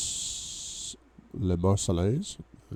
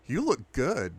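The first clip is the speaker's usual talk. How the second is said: gushing; 5 semitones higher than usual. Acted. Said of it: "she gushes".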